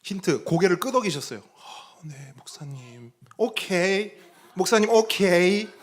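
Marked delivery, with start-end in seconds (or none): 1.4-3.1 soft, slow, almost breathless agreeing; a deacon murmuring yes to the pastor; hushed hesitant reply. Retold or imitated. Deacon quietly agreeing with the pastor, hushed and slow. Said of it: "이렇게 얘기했어요". 3.4-5.7 higher and louder bright agreement; a deacon cheerfully saying okay to the pastor; eager okay. Retold or imitated. Deacon loudly saying okay to the pastor, eager. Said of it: "이렇게 얘기했어요".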